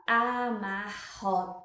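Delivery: "Amarrotada" slowly chanted a-mar-ro-ta-da on a level tone; syllable by syllable. Shown as a demonstration. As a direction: recount "Amarrotada" beat by beat. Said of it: "deu quantas sílabas?".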